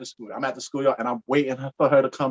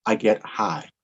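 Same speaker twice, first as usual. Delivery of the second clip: romantic poem recital. Pretend. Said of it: "You said who?".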